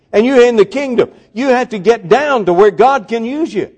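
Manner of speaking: high, urgent pulpit voice; driving sermon delivery, rising in pitch; impassioned preaching. Real, not acted. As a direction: build to a fervent, high-pitched exhortation. Preaches at full force.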